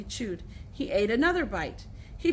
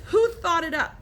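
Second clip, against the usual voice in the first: angry shout; 6 semitones higher, 5 dB louder than usual. A narrator's reading. Alan yelling from the stall.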